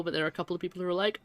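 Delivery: ordinary talk, nothing marked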